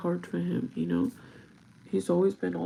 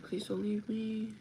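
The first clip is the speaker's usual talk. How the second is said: soft, slow, slightly raised mild plea; retold tearful plea; 3 semitones higher, 4 dB quieter, slower than usual. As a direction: plead gently, imitating someone starting to cry. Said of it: "And he started crying".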